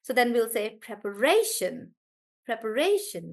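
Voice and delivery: preparation with ra stressed. Shown as a demonstration. Teacher models preparation for the class. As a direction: lean on ra in preparation. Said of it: "the stress is actually on re".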